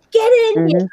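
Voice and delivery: high, loud mock holler; old Italian wife yelling indoors; imitating a yelling wife. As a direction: call the husband in, hammed up. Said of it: "yelling at her husband".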